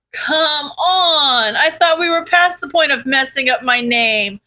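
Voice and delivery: whiny complaint; whining. Acted. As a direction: whine at them. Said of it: "Crawler whined".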